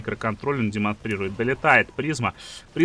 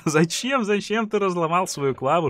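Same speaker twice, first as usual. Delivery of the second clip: изображает зрителя; 7 semitones higher than usual. Retold or imitated. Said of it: "Вы, конечно, спросите".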